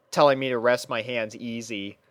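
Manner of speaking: ordinary talk, nothing marked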